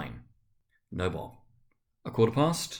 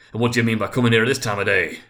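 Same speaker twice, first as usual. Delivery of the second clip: louder, fast, mock-stern scolding; feigned gruffness; 7 dB louder, faster than usual. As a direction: pretend to scold the late clerk. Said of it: "in his accustomed voice, as near as he could feign it".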